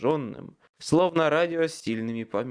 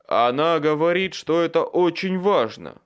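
insistent call; 5 semitones higher, 8 dB louder than usual. A narrator's reading. Michael insists, calling down.

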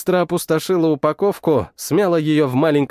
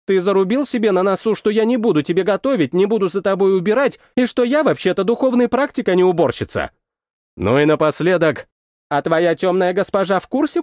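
rapid-fire questions; 4 semitones higher than usual. Acted. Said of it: "завалила меня вопросами".

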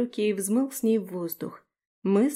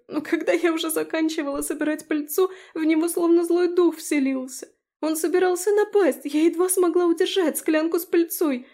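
put-on much higher, upset fairy girl; tearful young Abi; 8 semitones higher, 4 dB louder than usual. A narrator's reading. Abi recounts the unicorn attack to Daphne, higher tearful girl's voice. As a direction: tell it in distress, close to tears.

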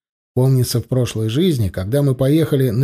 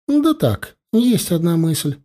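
lightly voiced wife, pitched high; a hint of a playful, higher woman's voice; wife's coy answer; 4 semitones higher, slower than usual. Wife answers husband about the camera, coy and higher.

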